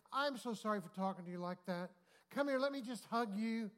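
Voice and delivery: imitated effusive sympathy; mock gushing apology. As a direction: play someone desperate to make amends. Woman's gushing apology before hug.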